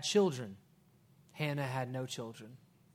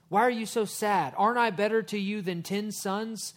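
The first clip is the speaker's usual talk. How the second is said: mock puzzled husband; 5 semitones higher, 5 dB louder than usual. Husband questions his sad wife.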